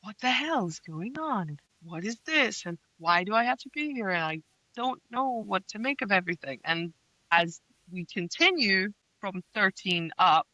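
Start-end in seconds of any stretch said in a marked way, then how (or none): 0.0-6.6 whiny heroine. Retold or imitated. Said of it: "This is the whiny part".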